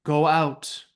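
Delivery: slow, deliberate proclamation; Fiona speaking out. Acted. Fiona addresses red-cloaked followers at the lake, slow proclamation. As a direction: address the followers in spaced, weighty phrases. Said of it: "she speaks out".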